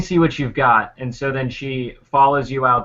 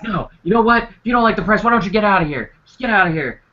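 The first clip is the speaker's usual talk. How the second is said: raised-pitch shopkeeper telling a customer off, higher; mock yell; 6 semitones higher, faster than usual. Shopkeeper yelling at a haggling customer, higher mock yell. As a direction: snap at him to get out. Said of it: "yelling at this customer".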